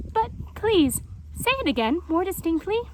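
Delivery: high pleading jaguar; Painted Jaguar. A narrator's reading. Jaguar begs them to repeat it, high.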